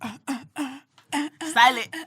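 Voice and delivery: very slow, stretched announcement; drawn-out title. Acted. Guest announcing the segment name, very slowly drawn out.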